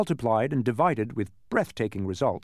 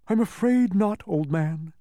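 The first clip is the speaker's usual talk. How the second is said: high-pitched character bug voice; blustery humbug; 7 semitones higher than usual. A narrator's reading. Bug turns down the boy's plea, blustery. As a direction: put on a higher bug's voice.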